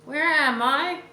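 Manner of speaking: high, loud, harsh beggar voice; demanding. A narrator's reading. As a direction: demand it like a cruel blind beggar. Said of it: "he demanded".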